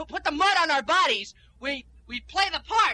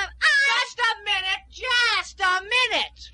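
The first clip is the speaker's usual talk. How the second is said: firm stop; 5 semitones higher, much slower than usual. Acted. Stepping in to stop fight.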